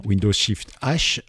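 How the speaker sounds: slow, deliberate key-by-key readout; naming each key as he presses it; slow dictation. Shown as a demonstration. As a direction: spell out the keys slowly, one by one. Repeats the key shortcut.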